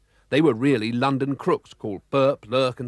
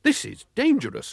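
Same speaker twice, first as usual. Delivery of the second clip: much higher alarmed cry; cried out; 10 semitones higher, 3 dB louder than usual. A narrator's reading. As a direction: cry out the warning. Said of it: "cried Mister Oldcastle".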